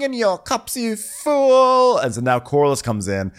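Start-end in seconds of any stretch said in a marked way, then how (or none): 0.0-2.0 mock scolding. Alicent scolding son.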